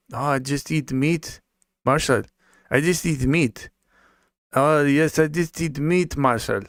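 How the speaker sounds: imitating the coworker. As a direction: parody the coworker's proud meat-only claim. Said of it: "he told me".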